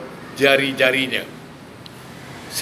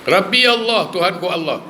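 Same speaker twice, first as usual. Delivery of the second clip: confident answer; 4 semitones higher than usual. Shown as a demonstration. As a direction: answer "Rabbi Allah" proudly, without hesitation. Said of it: "Kenapa dia boleh jawab?".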